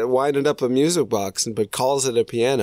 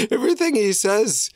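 ordinary delivery

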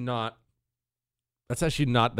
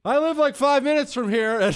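laughing; 11 semitones higher than usual. Real, not acted. Mocking the clip while laughing.

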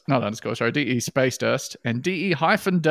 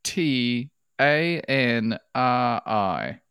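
slow, letter by letter; spelling it out; 2 semitones lower, much slower than usual. Real, not acted. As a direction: spell each letter out slowly. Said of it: "I'll spell it for you here".

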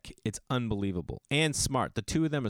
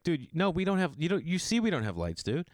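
passive-aggressive cop; 5 semitones higher than usual. Retold or imitated. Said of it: "passive-aggressive way to be like".

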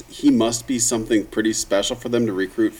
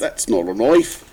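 Crocodile Dundee impression; 3 dB louder, slower than usual. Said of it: "my Crocodile Dundee".

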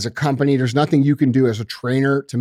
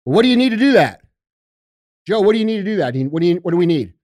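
listening leader; faster than usual. Retold or imitated. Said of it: "then what do I say".

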